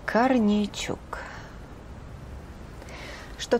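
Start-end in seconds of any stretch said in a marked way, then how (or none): 0.0-1.2 slow stunned whisper of the name; shocked whisper. Acted.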